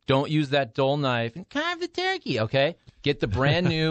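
lightly nagging mom voice; a hint of a nagging East Coast grandma. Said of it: "it's kind of a nagging mom or grandma voice".

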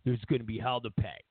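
a limp, unconvincing warning; a hint of a weak president; lightly mocked Obama. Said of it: "Obama was like".

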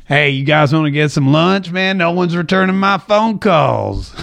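lightly imitated actor, stretched-out ending; a mock laid-back plea, drawn out at the end; Matthew McConaughey. Host imagining the shunned actor phoning friends, mock drawl. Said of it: "and he's like".

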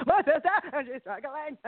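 light high-pitched aside, half laughing; a lightly voiced excited sister; teasing high squeak; playful high voice. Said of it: "I'm like".

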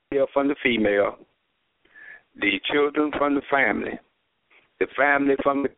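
phone call with a bad connection; breaking up phone line. Real, not acted. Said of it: "You coming in and out terrible".

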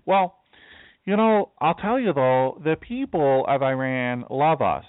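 high, slow, dreamy naive voice; mock naive voice. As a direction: drawl it like a gullible optimist. Mocking what people say.

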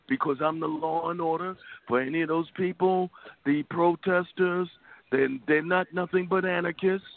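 a light Trump impersonation, near own voice; Trump impression. Host mocking Trump about protesters, lightly voiced Trump. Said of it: "that sounds pretty good as a Trump man".

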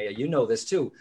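ordinary talk, nothing marked

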